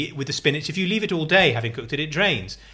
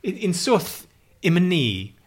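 playful mock medieval quote; renaissance fair olde speech; 5 semitones higher, slower than usual. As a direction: put on a bardic olde voice. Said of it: "Are you literally speaking in Old English?".

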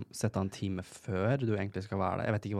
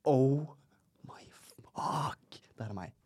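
dawning horror; 4 semitones higher, much slower than usual. Retold or imitated. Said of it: "jeg er sånn". (sjokkert erkjennelse som dør ut i hvisking)

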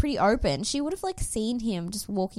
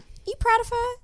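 teasing challenge; 14 semitones higher, faster than usual. Real, not acted. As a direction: pitch leaps way up, playful prodding. Teasing co-host.

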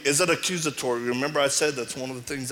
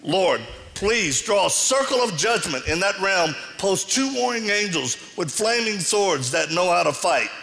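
fervent deliverance prayer, rising in command; 3 semitones higher than usual. Retold or imitated. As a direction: pray it out with authority, like binding a spirit. Retells his deliverance prayer.

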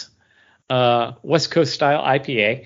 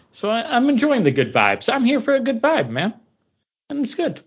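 laid-back vibes; 10 semitones higher than usual. Acted. Surfer-ish good vibes joke.

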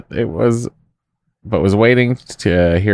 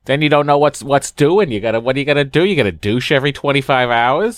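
lightly voiced eccentric aunt, higher; a hint of a quirky aunt; 5 semitones higher than usual. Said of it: "that wasn't my doctor voice ... eccentric aunt".

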